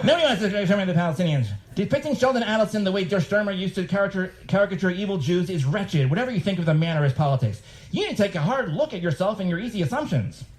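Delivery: high, fast, huffy lecture; mock Brett voice. Reading Brett's preachy email in a high, fast, huffy voice. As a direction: preach at him like a prig, quickly. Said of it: "I don't know if he talks like this".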